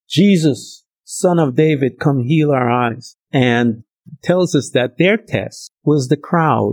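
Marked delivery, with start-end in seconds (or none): 0.1-3.2 higher pleading call. Retold or imitated. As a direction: call out to him. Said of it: "they screamed again".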